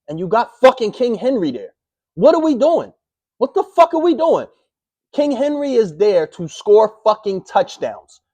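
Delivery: high, loud exasperated yelling; outraged fan shouting at the team; furious rant. Real, not acted. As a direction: yell at the coaches in disbelief. Ranting about the goal-line play.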